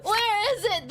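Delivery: laughing whine. Real, not acted.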